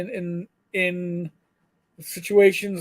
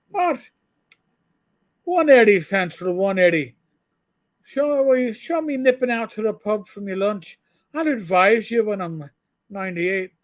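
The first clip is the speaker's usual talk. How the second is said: hammed-up Irish brogue, higher and louder; mock Irish brogue; 3 semitones higher, 3 dB louder than usual. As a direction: playfully fake an Irish cop's brogue on the radio. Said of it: "do an Irish brogue over".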